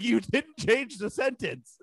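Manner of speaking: mock exasperation. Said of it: "I was like".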